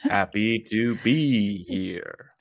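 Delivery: mock slow podcast delivery, each word stretched; very slow talking. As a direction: drag it out, teasing how slowly he should speak. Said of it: "Just talk really slowly".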